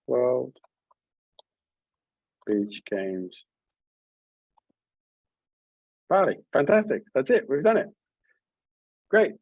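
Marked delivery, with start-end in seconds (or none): 0.1-6.4 World, Beach Games, Bali split by long pauses; counting syllables. Shown as a demonstration. Teacher checks the last line's syllables, slow with pauses.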